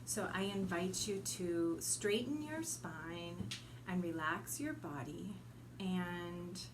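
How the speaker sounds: ordinary delivery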